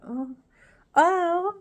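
high, mock moan; imitated moan. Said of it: "she moans at him".

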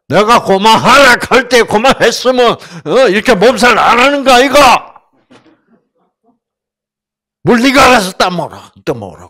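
loud, high blunt scolding; gruff scolding husband. Retold or imitated. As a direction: yell back at the sick wife in Gyeongsang style. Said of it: "그럼 경상도 남자 뭐라 그래요?".

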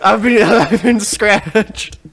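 being chased. Pretend. Zombies attacking his character.

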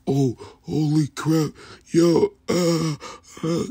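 high, shocked yelp; startled exclamation. Real, not acted. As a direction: jump high in surprise, oh holy crap. Reacting to dogs fighting on video.

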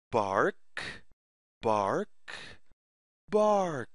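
low mock fox bark; lightly voiced fox bark for kids. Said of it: "makes the sound".

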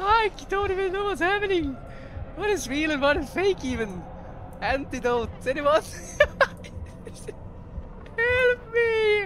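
high, loud frantic panic; panicked laughing. Real, not acted. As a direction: scream for help while laughing.

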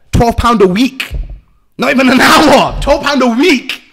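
slow, loud, pressing on "pound" and "week"; emphatic slow repeat. Real, not acted. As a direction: spell out "Twelve pound a week" with weight, word by word. Hammering home tiny prison wage.

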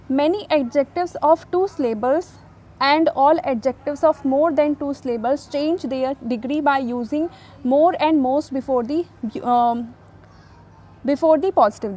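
slow, deliberate dictation of the English rule; slow rule reading. Shown as a demonstration. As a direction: read the rule out word by word. Reads the second rule aloud. (नियम धीरे-धीरे पढ़कर सुनाना)

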